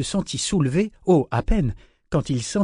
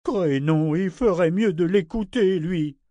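understated anger, a little higher; furious thought; 5 semitones higher than usual. A narrator's reading. Ship fuming at being ignored, furious thought. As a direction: fume inwardly. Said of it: "pensa-t-il furieux".

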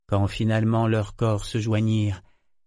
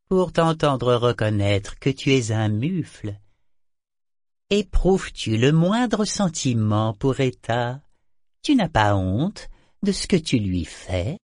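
amulette accusatrice; 3 semitones higher, 3 dB louder than usual. Acted. L'amulette accuse Kénit.

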